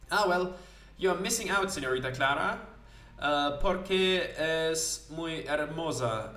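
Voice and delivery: dreamy sailor musing about an opera; a hint of a wistful Spanish seaman. Felipe answers Clara.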